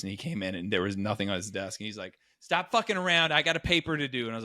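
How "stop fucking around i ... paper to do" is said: higher, exasperated retold complaint; mock the roommate's annoyance; imitated annoyed roommate. Retold annoyed roommate confronting him.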